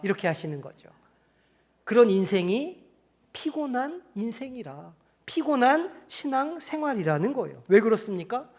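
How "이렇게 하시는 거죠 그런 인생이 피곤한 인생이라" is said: usual speaking voice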